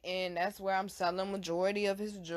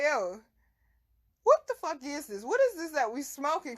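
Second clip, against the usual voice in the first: alarmed; 6 semitones higher than usual. Retold or imitated. Alarmed at strong weed.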